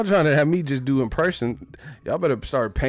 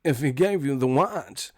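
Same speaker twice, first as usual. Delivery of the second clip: halting, oddly paced Walken cadence; Christopher Walken. Retold or imitated. Streamer does a Walken-style watch speech, halting cadence. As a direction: stretch the pauses in odd places. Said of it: "That's how Walken be talking".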